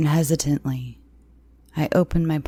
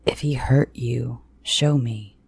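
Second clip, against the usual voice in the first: low command; 3 semitones lower than usual. Acted. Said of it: "he commanded over Brett's wails".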